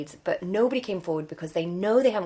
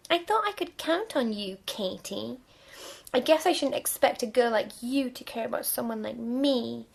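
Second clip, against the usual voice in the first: put-on lightly whiny boyfriend; 6 semitones higher than usual. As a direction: whine it, self-pitying. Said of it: "your whiny voice".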